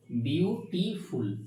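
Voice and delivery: বিউটিফুল said slowly in three separate syllables; broken into syllables. Shown as a demonstration. Teacher showing a class the syllables of বিউটিফুল, slowly broken apart. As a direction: break বিউটিফুল into three drawn-out beats. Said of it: "এখান থেকে ভেঙে হয়ে যাচ্ছে".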